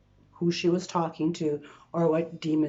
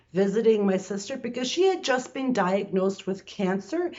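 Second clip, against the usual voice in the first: usual speaking voice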